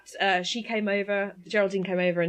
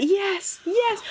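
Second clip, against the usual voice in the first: swooning yes; 11 semitones higher than usual. Retold or imitated. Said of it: "And she's just like".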